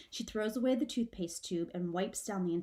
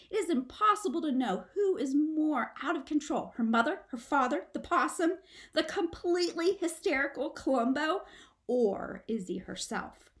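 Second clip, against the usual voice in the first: higher, louder frantic listing; rising chaos; 5 semitones higher, 3 dB louder than usual. A narrator's reading. Narrator listing the chaos, higher and breathless. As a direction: pile up the chaos.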